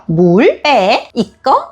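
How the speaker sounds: 짧게 묻듯이 끝을 올려 "물? 빼? 이거?"; 아이가 고를 수 있게 한 단어씩 묻기. Shown as a demonstration. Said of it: "이런 식으로요". (끝을 올려 한 단어씩 묻는 시범)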